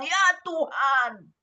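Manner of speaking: slow, drawn-out cry to God; retold plea. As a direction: stretch it out as an imploring prayer. Retold widow's plea to Jesus.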